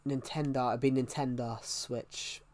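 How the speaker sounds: "Nintendo" with the final O turned to an ah; Nintendo ending in A. Shown as a demonstration. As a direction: end Nintendo on an open A sound, like nin-TEN-dah. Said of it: "it's an A".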